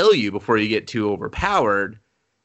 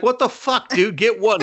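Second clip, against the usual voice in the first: much higher, laughing mock disbelief; shocked disbelief; 10 semitones higher, 4 dB louder than usual. Goddess stunned by the hero's level, high mock shock. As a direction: blurt it out, stunned. Goddess reacting to three armors.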